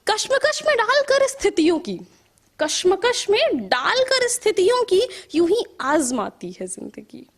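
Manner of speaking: measured verse with rising and falling cadence; poetry recital. Acted. Poet reciting to an appreciative audience, measured poetry recital. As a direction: recite in lilting lines, letting line endings sink.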